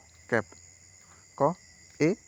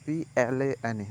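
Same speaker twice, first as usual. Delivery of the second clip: slow spelling; slower than usual. Shown as a demonstration. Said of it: "এই sound long হবে".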